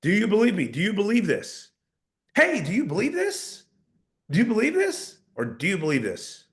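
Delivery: mock needy upward tone; upward tonality. Shown as a demonstration. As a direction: plead for belief with each rise. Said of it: "upward tonality".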